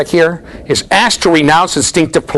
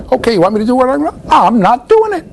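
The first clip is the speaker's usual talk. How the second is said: put-on stubborn child; 12 semitones higher than usual. Child refusing the parent's potty request, high and defiant. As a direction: refuse it like a smug toddler.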